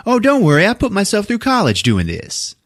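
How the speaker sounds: high-pitched, breezy mock reassurance. Partygoer painting her house, mock reassuring.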